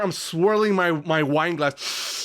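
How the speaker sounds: slow snooty British drawl; mock refined British connoisseur; lazy posh British. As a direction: play a pretentious Brit savoring wine, slowly. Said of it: "lazy man British".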